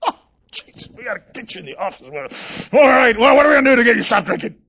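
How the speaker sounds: shrill, gasping, flustered hammed-up alarm; mock panicked pastor. Pastor mocking how he didn't react to the young man, flustered and alarmed. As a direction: parody the overreacting pastor, racing at the end. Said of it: "I didn't go like".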